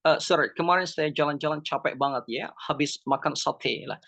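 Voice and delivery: lightly imitated Western accent in Indonesian; mock Western visitor's Indonesian accent; foreigner's accented Indonesian. Shown as a demonstration. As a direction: put on a hint of a foreigner speaking Indonesian. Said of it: "Bule tell like this one".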